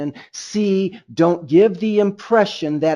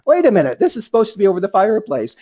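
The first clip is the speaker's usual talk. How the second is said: higher and quick, a half-joking double take; puzzled surprise; 4 semitones higher, 3 dB louder, much faster than usual. Retold or imitated. Thinking about stockings on the shelf, mock puzzlement. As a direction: act out a baffled inner thought. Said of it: "And I'm thinking".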